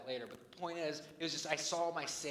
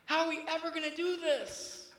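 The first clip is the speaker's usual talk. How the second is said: loud, higher exasperated cry; frustrated outburst; 8 semitones higher, 7 dB louder than usual. Retold or imitated. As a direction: throw up your hands in mock despair. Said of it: "and I was like".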